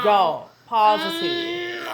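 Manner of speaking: a high, drawn-out joyful cry, slow; excited shout. Retold or imitated. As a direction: shout the news like you can't believe it. Reliving the positive test result.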